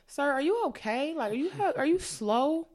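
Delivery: high, incredulous questioning; mock concern. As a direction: ask it like he's clearly not all there. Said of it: "I'm like".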